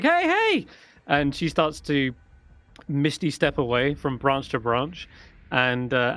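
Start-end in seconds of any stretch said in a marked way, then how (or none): 0.0-0.7 high, loud yelp; startled halfling cry. Acted. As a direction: shout at the lightning bolt. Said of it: "she's like".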